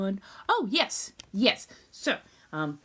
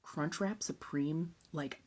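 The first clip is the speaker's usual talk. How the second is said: dreamy whisper; 7 dB quieter, slower than usual. Real, not acted.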